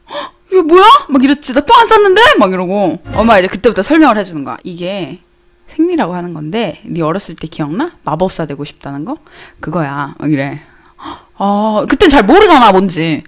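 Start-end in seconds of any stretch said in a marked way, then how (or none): 0.1-0.8 high, startled retold question; gasp, then ask in alarm; acted childlike shock, pitched up. 1.5-2.2 put-on high-pitched child's denial; acted puzzled kid, pitched way up; baffled protest. Retold child protests accusation. 4.6-10.1 lower, softer motherly voice; retold hushed, patient explanation; mom gently explaining.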